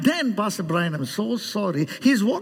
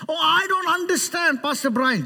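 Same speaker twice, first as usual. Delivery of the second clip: higher-pitched mock complaint; mock bewilderment; 6 semitones higher than usual. A congregant complaining to Pastor Brian, mock bewilderment. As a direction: plead that you don't get it. Acting a confused person's complaint.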